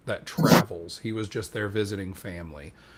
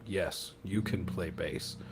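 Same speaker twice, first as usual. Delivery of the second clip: slow, softer imitation of the bassist agreeing; deliberate agreement; 2 semitones lower, 5 dB quieter, slower than usual. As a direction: draw it out in a quieter, measured voice. Bassist acted, agreeing with the drummer.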